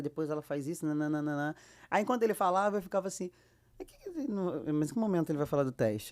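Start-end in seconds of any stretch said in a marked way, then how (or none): 3.8-6.1 mock-anxious wondering; impatient inner thought. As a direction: act out waiting for him to get to it. Acted inner impatience during director's explanation.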